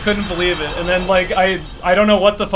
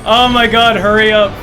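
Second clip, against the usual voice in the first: tense urging; 4 semitones higher, 4 dB louder than usual. Real, not acted. Racing the clock near finish.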